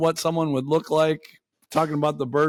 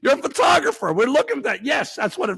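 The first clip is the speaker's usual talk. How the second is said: incredulous rant; 9 semitones higher than usual. Real, not acted. Ranting at the photographer.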